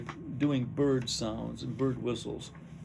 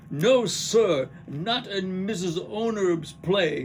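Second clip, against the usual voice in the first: Kitty; 6 semitones higher, 7 dB louder, much slower than usual. Acted. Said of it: "Kitty goes, points off stage".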